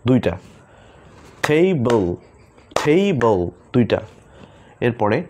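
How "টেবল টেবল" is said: টেবল split into two beats, tei-bl; clapping syllables. Shown as a demonstration. Teacher claps syllables for students, two beats. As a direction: clap twice: টেবল. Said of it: "আমরা তালির মাধ্যমে সেই ওয়ার্ডগুলোকে শিখব".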